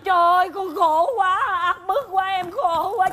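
high-pitched wailing complaint; theatrical lament. Acted. Pregnant daughter pressed to confess, melodramatic wailing.

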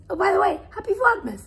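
excited greeting. Real, not acted. Sudden cheerful festive greeting.

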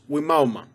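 Wimauma said as wih-MAL-muh; pronunciation demo. Shown as a demonstration. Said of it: "It's pronounced".

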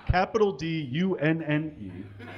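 letters read one by one, amused; deadpan letter-by-letter spelling; spelling out a typo. Shown as a demonstration. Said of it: "spells out the typo".

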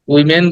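"উইমেন" with a full e in men; wrong reading, open second vowel in "উইমেন"; common mispronunciation. Shown as a demonstration. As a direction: quote the mistaken "উইমেন", ending men. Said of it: "ওয়েমেন না".

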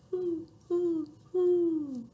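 high, hollow owl hooting; owl hoots. Shown as a demonstration. Owl flapping his wings in the rhyme, hooting high. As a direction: hoot three times like an owl. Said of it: "and says".

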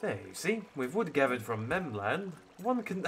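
a lightly posh, lordly read; hint of a stuffy English scholar; sophisticated accent. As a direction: talk like a fussy gentleman, only a touch put on. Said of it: "saying it with a sophisticated accent".

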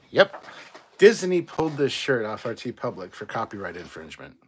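loud, indignant outburst; angry rant. Real, not acted. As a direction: spit out the blame. Ranting about Disney copyright.

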